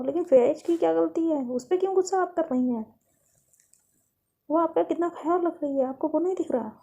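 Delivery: understated exasperated mother; motherly reproach. Acted. Mother reproaches daughter for misplaced anger.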